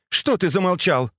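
high-pitched impatient prodding. A narrator's reading. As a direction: prod the silent servant to go on. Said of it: "нетерпеливо спросила Фэнзе".

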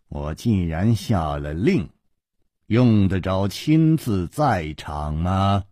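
low, restrained severity; understated stern rebuke; mild sternness. Acted. Nangong Ling defends his order, mildly stern. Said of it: "厉声说".

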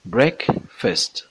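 "Breakfast" with a reduced "fest" ending; correct pronunciation. Shown as a demonstration. Teacher models the word for learners, correct pronunciation of "Breakfast" as BREK-fest.

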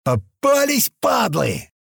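high-pitched triumphant yell; gleeful yell. A narrator's reading. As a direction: crow it as if you've caught them. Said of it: "заорал леший".

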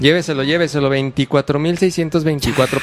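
rattling off prices like a street vendor; quick Mexico City market hawker patter; singsong market price calls. Retold or imitated. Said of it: "el marchante de, de Tepito".

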